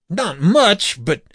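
high-pitched, worried answer; anxious reply. A narrator's reading. Poisoned man answers in alarm.

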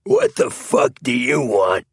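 high, rough-mannered challenge from a thug; hostile demand. A narrator's reading. Knifeman confronting an intruder in the alley, hostile demand.

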